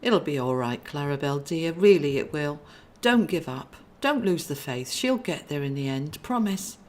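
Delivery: calm her down like a big brother; reassuring brother. Acted.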